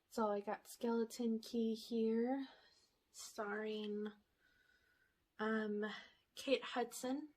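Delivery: slightly winded; breathless between words; out of breath. Real, not acted. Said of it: "I'm out of breath all of a sudden".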